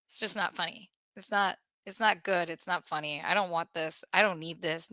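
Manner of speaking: quiet and grim. Real, not acted. Grim after the laughter.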